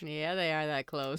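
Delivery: hint at something improper, voice dropped; creepy insinuation. Real, not acted. Co-host teasing about the two actors' ages, creepy insinuation. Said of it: "Why are you saying it like that?".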